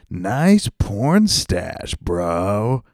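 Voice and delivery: retold loud call. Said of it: "Like, loud, he said that".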